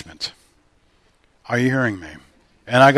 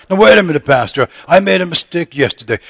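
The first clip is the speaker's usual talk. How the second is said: higher, pleading objection from the pews; doubting churchgoer; 6 semitones higher, 6 dB louder than usual. Acted. Pastor acts out a churchgoer objecting to him, a pleading higher voice. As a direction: play the worried member cutting in on the pastor.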